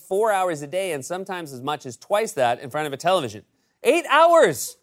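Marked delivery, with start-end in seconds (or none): 3.8-4.8 high, loud disbelief; shocked outburst; surprised. Real, not acted. Shocked at Trump's TV time.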